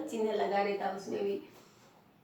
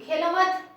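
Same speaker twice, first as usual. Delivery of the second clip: खेलो मत together, higher and louder, then stop; pause after मत; 6 semitones higher, 6 dB louder, slower than usual. Shown as a demonstration. Teacher moves the comma, halting after खेलो मत. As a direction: run खेलो into मत and halt. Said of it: "फिर रुकना है अपने को".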